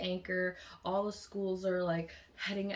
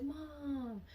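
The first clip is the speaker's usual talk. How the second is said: calling mom; 9 semitones higher, 4 dB quieter than usual. Retold or imitated.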